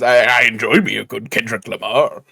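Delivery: lightly imitating the cartoon crab; mock Mister Krabs. Co-host mimics friend's line as Mister Krabs, lightly voiced. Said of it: "Thank you, Mister Krabs".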